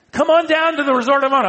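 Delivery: hammed-up tempting call to come down; high coaxing lure. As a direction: lure him down like a smooth tempter. Enemies lure again.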